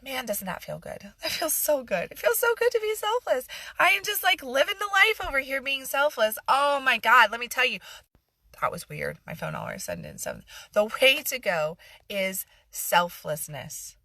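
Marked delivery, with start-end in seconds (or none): 0.0-7.8 high, loud mock delight; sarcastic gushing, pitched up and louder. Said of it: "you can hear that sarcasm". 10.7-14.0 sarcasm. Pretend. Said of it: "you can hear that sarcasm".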